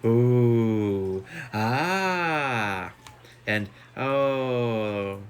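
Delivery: chorus of delighted oohs; drawn-out admiring gasps; impressed ooh and ah. A narrator's reading. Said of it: "a chorus of genuine".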